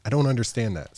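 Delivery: mock bewildered quizzing; baffled. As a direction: sound genuinely stumped by it. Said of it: "I'm like".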